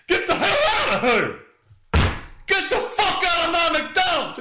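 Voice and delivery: high shouted guard voice, laughing through it; mock guard shout. Comedian voicing guard ejecting customers, high mock shouting. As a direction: yell at customers like a furious guard. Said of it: "told them to leave".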